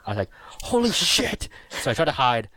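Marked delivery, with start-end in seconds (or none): 0.6-1.5 much higher panicked cry of holy shit; a retold scream of fright, high-pitched; mock terrified yell. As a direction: yelp it like robots just burst in. Retold terror at the robots.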